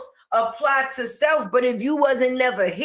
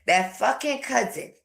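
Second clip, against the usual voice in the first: mock quote. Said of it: "She said".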